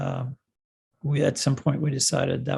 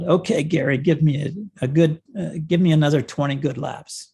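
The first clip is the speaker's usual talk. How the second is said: mildly raised voice, imitating a shout; retold yell; 4 dB louder than usual. Coach calling to his rider mid-race, retold yell. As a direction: call it out a little louder, half-shouting. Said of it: "I yell out".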